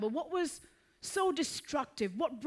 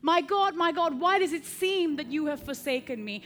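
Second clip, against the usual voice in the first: anguished cry; 3 semitones higher than usual. Retold or imitated. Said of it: "that's been your cry".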